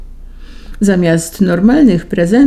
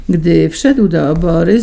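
plain reading voice

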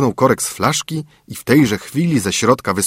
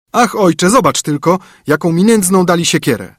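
high, louder exclamation; complaining son; 8 semitones higher, 5 dB louder than usual. A narrator's reading. Son showing father the bent axe, high complaining voice.

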